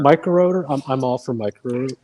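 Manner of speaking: muffled through a face mask; balaclava. Real, not acted. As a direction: speak through a covered mouth. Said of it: "I can't talk with this mask".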